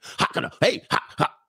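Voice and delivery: barked fake-German-sounding Swedish syllables; aggressive mock Swedish. Streamer imitating Swedish women talking like Germans, aggressive mock Swedish. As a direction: bark short bursts of mock Swedish gibberish. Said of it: "They talk like German chicks".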